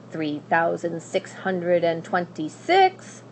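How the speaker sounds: slow, dry counting, barely looking up; a hint of a bored old witch; lightly voiced witch counting. Witch counting gold, ignoring the princess, lightly voiced.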